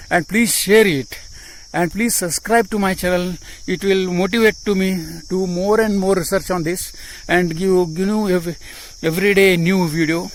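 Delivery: breathing heavily while talking; audible breathing. Real, not acted. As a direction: hear the breath between words. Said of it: "Sorry for my breathing problem".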